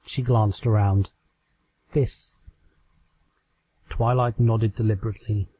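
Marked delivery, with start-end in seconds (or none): 1.9-2.5 softer, breathy final word; sheepish trail-off. Acted. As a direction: let the word fade out in embarrassment. Trixie trailing off.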